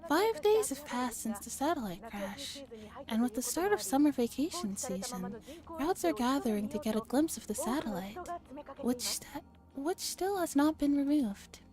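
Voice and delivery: mildly put-on news reporter read. Visual novel player voicing a TV satellite report, news reporter style. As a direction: deliver it like a lively field report.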